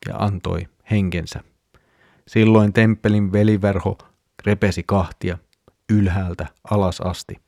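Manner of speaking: even, level-pitched Bible reading; scripture reading. A narrator's reading. Podcast host reads the Gospel passage to listeners, measured scripture reading. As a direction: read the passage aloud steadily, with little melody.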